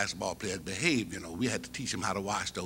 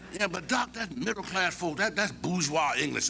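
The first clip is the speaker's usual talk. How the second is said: put-on higher, mildly defiant young man; student's voice; 6 semitones higher than usual. Mouse protesting to Doc, a lightly higher defiant voice. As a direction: push back, lightly voiced.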